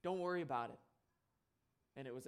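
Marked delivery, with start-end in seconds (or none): 0.0-0.8 "Don't worry about it" with a catch of emotion, slightly raised; close to tears. Retold or imitated. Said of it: "As I'm about to cry".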